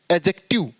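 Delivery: "एडजेक्टिव" with the d dropped, a-jek-tiv; silent-d pronunciation. Shown as a demonstration. Teacher models the word for learners, "एडजेक्टिव" with silent d. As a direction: say "एडजेक्टिव" as ajektiv, j sound only. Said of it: "एडजेक्टिव नहीं".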